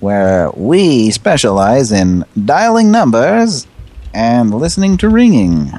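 slow, announcer-style mock slogan. Host doing a fake phone company ad, slow. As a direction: sell it like a hammed-up phone commercial.

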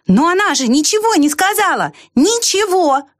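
high, lightly shouted lark; a bird calling down in protest; lark's cry. A narrator's reading. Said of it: "и крикнул". (высокий птичий выкрик)

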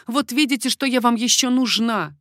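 lightly voiced eager exclaim; exclaiming queen. A narrator's reading. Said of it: "воскликнула Маргарита".

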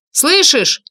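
high, loud shouted question; yelling. A narrator's reading. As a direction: yell it over the engine. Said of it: "заорал Ник".

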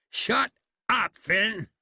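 high sharp rebuke; snapped shut-up. Acted. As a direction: cut him off hard. Ike silences Phineas.

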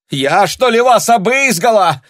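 high, loud indignant cry; ringing cry. A narrator's reading. Tanya, shaken, cries out at the passer-by, ringing. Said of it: "крикнула она звенящим голосом".

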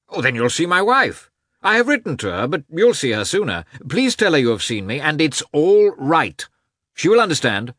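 high-pitched, gushing gentleman; exuberant Oblonsky. Acted. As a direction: bubble over with joyous encouragement. Voices Oblonsky in dialogue.

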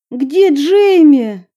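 high, sharp demand. Acted. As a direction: pounce on him with the question. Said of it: "накинулась на парня с расспросами".

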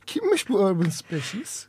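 playful laughing question. Pretend. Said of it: "ben size yardımcı olayım".

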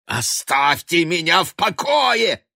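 high, loud and slow furious shout; raging yell to be left alone. A narrator's reading. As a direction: hurl it at her in a rage. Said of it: "сказал он яростно".

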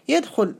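يدخل said yadkhul, with u after the kh; damma on يدخل. Shown as a demonstration. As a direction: give يدخل a short u in the middle. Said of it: "بالضم".

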